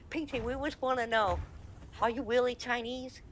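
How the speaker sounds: imitated fans. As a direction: pitch it up for a mock curious question. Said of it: "and they're like".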